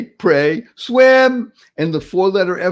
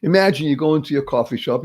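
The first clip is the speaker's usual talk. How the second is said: ordinary talk, nothing marked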